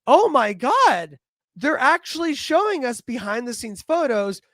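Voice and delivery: mock-amazed fan outburst; lightly acted excitement; imitating excited fan. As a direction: gush like a fan fooled by a leak. Imagined fan thrilled by fake photos.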